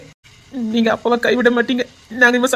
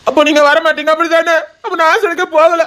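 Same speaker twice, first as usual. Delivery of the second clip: put-on higher-pitched, childlike crying plea; acted tearful sulk, pitched up; tearful protest; 4 semitones higher than usual. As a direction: protest like a small child about to cry. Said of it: "சின்ன பிள்ளை மாதிரி அழுதுகிட்டு".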